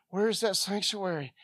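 ordinary talk

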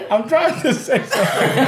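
high and laughing through it; words slowed by a strong high; stoned. Real, not acted. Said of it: "That's animals kicking in".

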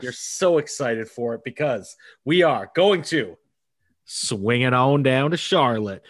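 drawn-out Southern drawl, host style; Southern flair. Acted. Host hyping the next guest, in a slow Southern drawl. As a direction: lay on a slow Southern twang. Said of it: "that is some of the most Southern flair I think I've ever heard".

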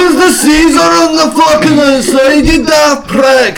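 high-pitched, exasperated shouting; angry rant. Acted. Shrek arguing about fruit with the donkey, angry shouting. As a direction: berate them in comic outrage. Acted quarrel over berries.

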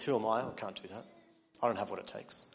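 mild mopey excuse, dropping away; deflated excuse. Retold or imitated. Preacher voicing the believer's excuse, mildly deflated. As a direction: sound lightly sorry for yourself.

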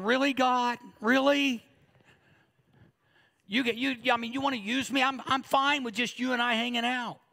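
a reluctant preacher balking at God's call; incredulous protest to God. Retold or imitated. Preacher retelling his reluctant answer to God, incredulous. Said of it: "I'm sitting there going".

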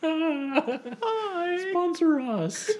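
high, laughing, slow sponsor plea; mock sponsor plea. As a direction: beg like a cheeky caller. Pretend call to Squarespace.

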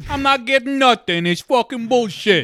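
mock whiny crewman.

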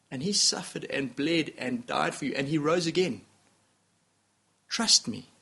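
understated divine tenderness; gentle voice of the Lord. Retold or imitated. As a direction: speak softly as a loving father offering his son. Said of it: "And the Lord says".

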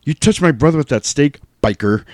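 lightly voiced movie tough guy; George Clooney. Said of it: "George Clooney goes".

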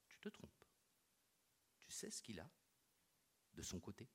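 soft, breathy whisper; tense whispered warning. Acted. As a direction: hush it like a secret danger. Claire warns him in a hush.

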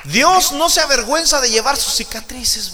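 full-voiced pulpit preaching; preaching at full force. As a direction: preach it out to the congregation. Preacher bursts out.

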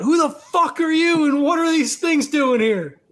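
high-pitched challenge to a stranger; yelling out. Acted. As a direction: call out a demand, in character. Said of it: "I think Nash yells out".

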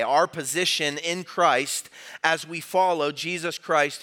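ordinary talk

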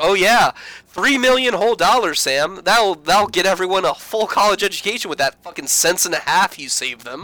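drip with sarcasm; sarcastic mockery. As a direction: intern mocking Sam's savings. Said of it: "she's like".

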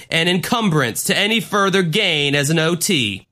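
imitating a church leader's speech; solemn pulpit announcement, lightly done; David Miscavige. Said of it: "and he's going".

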